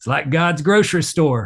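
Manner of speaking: put-on homespun country accent. Quoting a buddy met while gigging: imitating a country accent. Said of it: "he says in this wonderful country accent".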